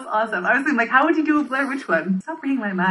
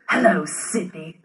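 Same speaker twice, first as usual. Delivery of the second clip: very slow, low menacing caller; Ghostface voice; 3 semitones lower, much slower than usual. Acted. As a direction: drag it out close to the mic. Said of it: "I'm getting closer on mic to do this".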